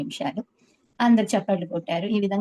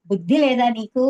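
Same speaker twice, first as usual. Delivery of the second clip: retold angry rebuke, raised and louder; angry scolding; 3 semitones higher, 6 dB louder than usual. Teacher angrily scolding his student over sweets. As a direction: scold her sharply like an irate teacher. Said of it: "కోపంతో ఆ packet తీసి".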